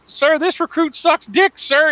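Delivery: high slow recruit bark; barked military recruit reply. Retold or imitated. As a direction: shout it stiffly at attention. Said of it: "he goes".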